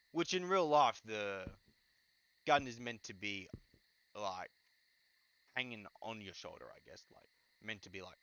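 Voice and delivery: halting speech with restarts; stuttering. Real, not acted. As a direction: stammer through the words. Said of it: "Sorry about me stuttering".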